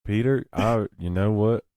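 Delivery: high, loud excited bro; hyped bro voice. Pretend. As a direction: pump it up like a gym bro. Mock hyped Aunt May.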